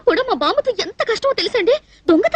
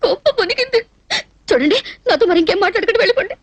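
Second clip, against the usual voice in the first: crying as she sends him away; hurt, weepy voice; tearful. Acted. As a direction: dismiss him through tears. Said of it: "ఎందుకు ఏడుస్తున్నట్టు".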